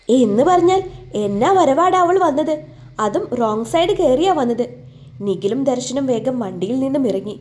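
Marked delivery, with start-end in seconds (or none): 0.1-4.6 irritated outburst. Acted. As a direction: vent at the reckless rider. Angry at reckless scooter rider. (ദേഷ്യത്തോടെ ഉറക്കെ)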